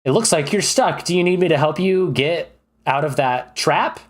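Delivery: a hint of a chipper adventurer; helpful adventurer. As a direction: offer a goblin help in pretend play. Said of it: "come up to a goblin and you go".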